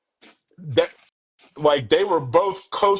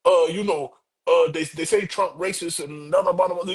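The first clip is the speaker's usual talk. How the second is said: mock a fumbling interviewee with filler hesitations; mock hesitant waffling; imitated stuttering answers; 2 semitones higher than usual. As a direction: hem and haw, imitating someone dodging questions. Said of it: "stuttering through these different answers".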